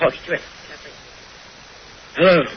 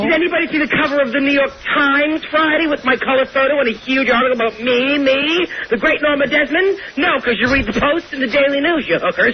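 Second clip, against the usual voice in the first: grand boast; 6 semitones higher than usual. Acted. Boasting about Times cover.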